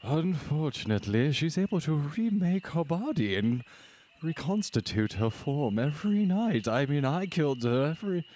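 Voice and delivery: genteel husband character. Acted. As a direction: explain it as a long-suffering, courteous husband.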